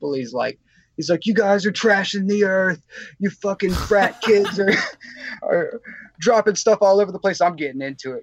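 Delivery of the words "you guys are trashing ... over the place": play-acted hippie voice, high-pitched screaming rant. Retelling how a hippie started in on a crowd, imitating him screaming. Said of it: "this hippie starts screaming at all these people".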